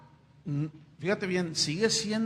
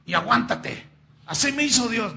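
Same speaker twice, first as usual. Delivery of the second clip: higher, louder mock of a defiant believer; mocking stubborn Christian; 4 semitones higher, 5 dB louder than usual. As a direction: parody someone who refuses to change. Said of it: "personas que dicen". (imitación burlona de un creyente terco)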